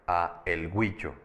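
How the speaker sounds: "a el" as two separate words, slowed down; "a el" said separately. Shown as a demonstration. Teacher showing when not to contract, "a el" kept apart. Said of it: "por separado".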